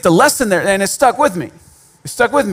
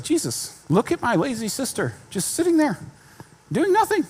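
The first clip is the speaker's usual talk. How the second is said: higher, whining complaint about her sister; mock tattling on a lazy sister; whiny Martha; 8 semitones higher, 6 dB quieter than usual. Martha tattling on Mary to Jesus, higher and whiny. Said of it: "She's like".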